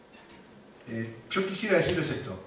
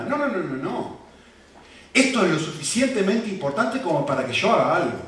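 firm, mildly indignant refusal; insistent, with a touch of righteous anger; indignant God; 3 semitones higher, 3 dB louder than usual. Acted. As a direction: voice God refusing to look away. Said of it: "la persona que más se enoja".

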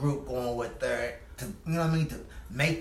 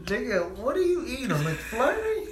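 laughing; 11 semitones higher than usual. Real, not acted. Teasing joke right after laughing.

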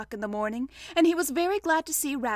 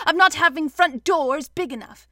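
louder, higher, cross complaint; 4 semitones higher, 8 dB louder than usual. A narrator's reading. Pooh blaming Rabbit's front door, cross. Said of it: "said Pooh crossly".

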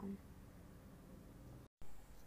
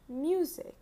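higher, clear dictated word with a rise; dictating; 6 semitones higher than usual. Shown as a demonstration. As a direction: say it up brightly for children to write. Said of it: "I will repeat each word two times".

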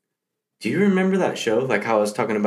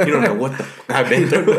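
intense Tyson quote; 4 semitones higher, 4 dB louder, faster than usual. Retold or imitated. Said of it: "He's like".

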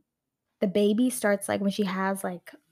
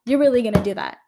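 outraged disbelief; 9 dB louder than usual. Retold or imitated. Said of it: "it was like".

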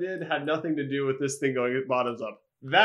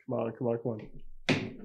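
pleading whisper; 4 semitones lower, 9 dB quieter than usual. Real, not acted. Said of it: "one last time I'm gonna try".

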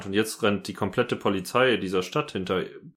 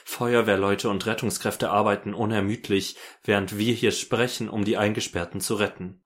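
news anchor. Pretend. News bulletin read in game.

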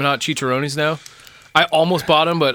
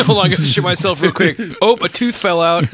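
laughing, slightly raised explorer parody; mock explorer voice; 4 semitones higher, 3 dB louder than usual. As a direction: play a silly old explorer, giggling.

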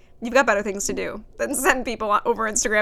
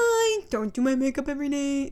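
put-on voice with a stretched first word; Dixie D'Amelio; 2 semitones higher than usual. Imitating an influencer's makeup video, drawled. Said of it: "she has a video where she says that".

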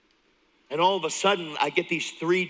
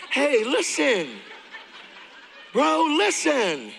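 much higher, laughing, slow; laughing excitement; 9 semitones higher, 3 dB louder, slower than usual. Retold or imitated. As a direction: coax him with a laugh, high. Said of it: "I'm like".

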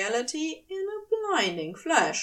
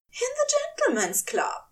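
stunned angel. Acted. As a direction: let each word land in disbelief. Aziraphale continues.

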